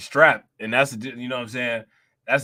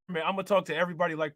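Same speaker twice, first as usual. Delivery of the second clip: usual speaking voice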